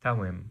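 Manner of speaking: "Tawim" modeled with an initial t sound. Shown as a demonstration. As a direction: say "Tawim" starting on ta, not da. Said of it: "it becomes a ta sound".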